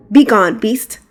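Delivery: loud defiant shout at the beast; battle shout. Acted. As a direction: shout as you swing the sword. Knight attacks the dragon.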